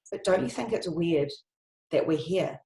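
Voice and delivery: hushed earnest wonder. Retold or imitated. Young woman asking her friends a hushed, earnest question. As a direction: lean in and wonder aloud, hushed.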